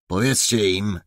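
hissed command; hissed order. Acted. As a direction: spit the order at the officer. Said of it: "syknął Głód".

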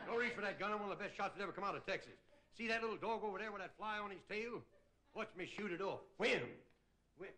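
lightly voiced cowboy bravado; a hint of a swaggering gunslinger showing off; John Wayne. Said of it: "You ever see John Wayne walk?".

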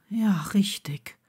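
a whispered, breathy okay; soft whisper. A narrator's reading. Blaze answering Neville softly, still dazed. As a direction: say it barely aloud. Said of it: "sagte er leise".

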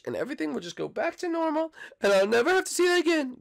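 high, whiny boy cartoon voice; cartoon boy whining at his dad; Bart voice. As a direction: play the bratty kid son. Plays Bart for many lines.

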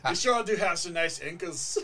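mock Amish flirt with a Scottish lilt; badly faked Amish accent sliding into Scottish; would-be Amish accent, oddly Scottish. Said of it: "Amish accent is Scottish".

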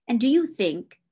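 mildly stern challenge; understated stern master. A narrator's reading. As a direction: open the question as a firm reproof. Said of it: "said master sternly".

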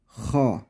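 Ha, hırıltılı gırtlak sesi; Ha'yı boğazdan hırıltıyla; throaty ha. Shown as a demonstration. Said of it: "Yine aynı şekilde". (hırıltılı Ha)

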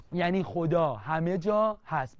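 slow, word by word, for writing down; slow dictation. Shown as a demonstration. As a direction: dictate it slowly so the student can write. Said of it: "بنویس بیچاره". (دیکته کردن آهسته)

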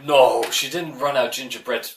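light Irish lilt on the line; Irish accent. Acted. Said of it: "Bit Irish".

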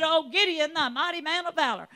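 loud, booming angel hailing Gideon; angel's proclamation. Acted. Angel greeting frightened Gideon, loud and grand. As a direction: proclaim it like a heavenly messenger. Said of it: "an angel appears and said".

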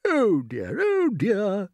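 loud, rising lament; dismayed old grasshopper. Acted. Grasshopper hears starve or drown, lamenting.

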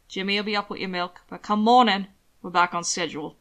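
a hint of a firm attendant; lightly voiced Zeller figure. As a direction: lay down terms to the boss. Zeller instructs his master.

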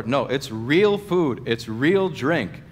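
"real" drawn out slowly both times; clarifying emphasis. Acted. Clearing up confusion for listeners, slow emphasis on "real". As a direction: lean slowly on "real", falling after it. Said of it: "to clear up any sort of confusion".

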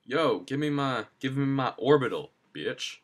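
a hint of flashy pimp swagger; lightly voiced smooth pimp. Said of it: "that pimp voice".

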